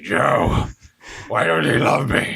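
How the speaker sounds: plaintive, put-on wounded voice; mock crying. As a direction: plead like someone crying, played for laughs. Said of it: "He's crying right now".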